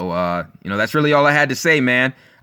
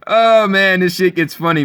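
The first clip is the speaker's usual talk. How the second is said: amused; 4 semitones higher, 4 dB louder than usual. Real, not acted. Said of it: "I'm just laughing".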